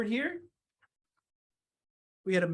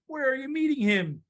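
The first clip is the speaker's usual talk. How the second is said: higher-pitched snake question; inquiring snake; 6 semitones higher than usual. Acted. Snake asks the mouse about the meeting, inquiring. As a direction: lift it as an anxious question.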